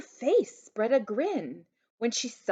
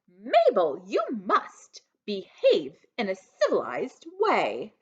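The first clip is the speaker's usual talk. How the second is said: disgusted; 4 dB louder than usual. Acted. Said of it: "With a tone of disgust".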